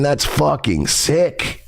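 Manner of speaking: slow, disapproving emphasis on "sick"; mean "sick" as disturbed, said slowly; deliberate, serious "that's fucking sick"; not the cool way. Real, not acted. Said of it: "not in the cool way".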